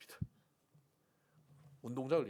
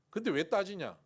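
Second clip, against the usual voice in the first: sharp rebuke; 6 semitones higher, 7 dB louder than usual. Acted. God confronts him.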